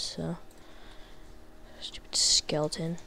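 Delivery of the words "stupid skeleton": voiceless whispered insult. Real, not acted. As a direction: hiss it under your breath at the skeleton.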